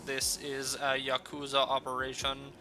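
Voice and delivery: calm, heavily digitized voice; bitcrushed. Acted. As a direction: speak it calm like a glitchy machine. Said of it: "calmly speaks with a heavily digitized voice".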